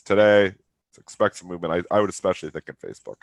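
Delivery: nasal voice from a cold; stuffy nose. Real, not acted. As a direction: talk through a blocked nose. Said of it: "Even my nasally voice annoying me".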